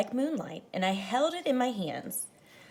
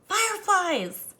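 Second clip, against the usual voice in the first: a higher, louder, lightly voiced mom; Mama calling; 10 semitones higher, 5 dB louder than usual. Mama calls her son back to his dinner, lightly voiced. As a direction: call it out like a mother at supper.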